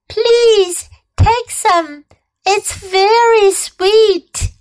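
high, slow bee voice; a tiny bee offering honey slowly; sweet bee voice. Acted. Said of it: "she buzzed".

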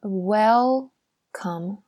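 slow teaching welcome with a full l; clear L sound. Shown as a demonstration. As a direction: WELCOME slowly split, holding the l in "wel". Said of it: "然后呢，还有一个l的音".

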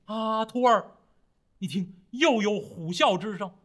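略带惊慌，音调抬起; 有点慌地提醒徒弟; 受惊的师父. Acted. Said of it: "三藏法师在马上一激灵". (受惊地唤徒弟听虎啸)

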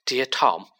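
recited. Acted. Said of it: "he recited".

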